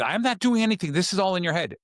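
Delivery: high, loud mock denial of a gaslighting partner; imitating a partner denying everything; defensive partner. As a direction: play the partner who brushes it all off. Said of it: "they're gonna be".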